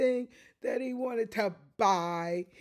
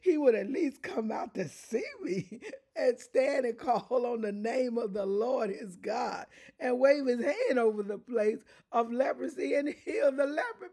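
furious Naaman; 3 semitones higher than usual. Retold or imitated. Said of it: "he went away and he said".

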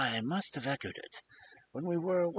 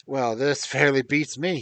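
louder, exclaiming inspector; astonished cry; 8 dB louder than usual. A narrator's reading. Inspector stunned by the newcomer, crying out loud. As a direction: inspector blurts out his amazement aloud. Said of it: "he cried at last".

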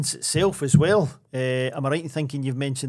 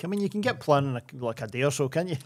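sarcastic; 4 dB quieter than usual. Real, not acted. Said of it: "He says sarcastically".

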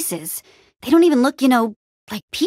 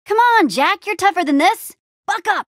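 high, raised voice pushing him on; urgent rallying; 9 semitones higher, 3 dB louder than usual. Acted. Urging Jack to be tougher, urgent rallying call. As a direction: spur on a faltering friend.

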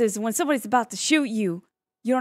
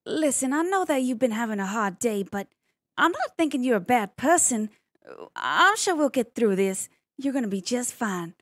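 calming someone down. Pretend. Shows the interviewer how she calms someone down, reassuring. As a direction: soothe an upset stranger, lightly acted. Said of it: "try to calm somebody down".

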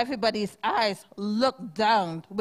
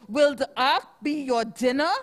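louder mock baboon yell; baboon scream; 3 semitones higher, 4 dB louder, faster than usual. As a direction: jeer at them, louder. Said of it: "screamed the baboon".

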